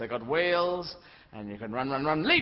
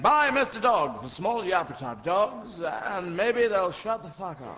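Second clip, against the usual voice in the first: slow mock advert pitch; advertising campaign; 2 semitones higher, 4 dB louder, slower than usual. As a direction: sell it like a hammed-up commercial. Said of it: "big advertising campaign saying".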